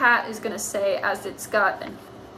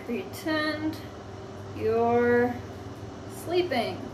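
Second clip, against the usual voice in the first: slow dictation; 3 semitones higher, 8 dB quieter, slower than usual. Shown as a demonstration. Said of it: "slow dictation while writing".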